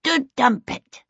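put-on high, slow toddler babble. A narrator's reading. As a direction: drag it out in a high little-child voice. Toddler speaking with buttery face.

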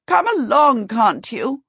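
irritable princely command; angry. A narrator's reading. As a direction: snap at stragglers to hurry them. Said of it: "he said angrily".

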